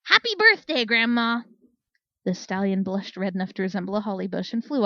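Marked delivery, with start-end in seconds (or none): 0.0-1.4 glass-shattering bellow. Acted. Flare bellowing at a flashing stallion, loud bellow. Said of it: "bellowing in a voice that would have shattered glass".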